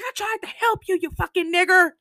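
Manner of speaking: retold slur in the street fight; high furious insult.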